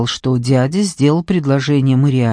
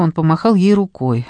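ordinary delivery, nothing marked

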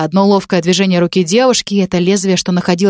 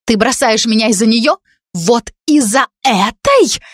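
bitter accusation; 4 semitones higher, slower than usual. Acted.

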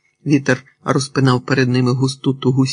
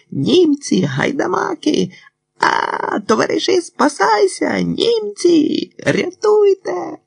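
high-pitched, drawn-out screaming alarm; wild frantic cry; slower than usual. A narrator's reading. Doctor faking panic to confuse the soldiers, wild high cries. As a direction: cry out frantically as if raising the whole camp. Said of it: "дико, несамовито кричачи".

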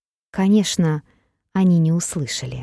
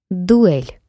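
answering challenge. Acted. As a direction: shout back the challenge. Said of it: "откликнулся его противник с земли". (громкий ответный вызов)

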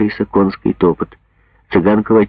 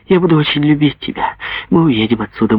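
higher, tender mother voice; a mother cooing over her child; lightly voiced loving mother; 6 semitones higher than usual. Mother promises daughter a life.

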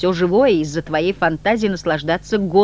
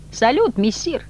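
a bright raised call, higher; shouted greeting; 7 semitones higher, slower than usual. A narrator's reading. The restless pair greeting their master with a shout. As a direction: hail him cheerfully across the terrace. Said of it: "прокричала неугомонная парочка".

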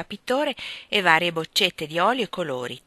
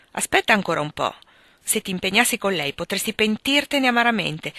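a mother's earnest lecture, lightly acted; mildly emphatic motherly reproach; serious scolding; 3 dB louder than usual. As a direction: press your concern on a son. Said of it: "una ramanzina piuttosto seria".

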